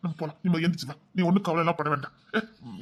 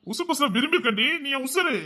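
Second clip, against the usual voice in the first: higher, fervent declaration of love; emotional declaration; 7 semitones higher than usual. Acted. Husband telling his wife she is his life, fervent and raised. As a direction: pour your heart out to her.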